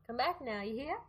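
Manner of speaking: playful Southern American send-off; mock Southern American hospitality; American Southern accent. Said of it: "bringing it back to our American accents".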